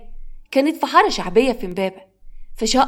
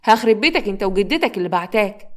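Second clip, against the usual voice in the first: mildly raised scolding; angry threat. Acted. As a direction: threaten the child you have grabbed. Stepmother grabs and threatens boy.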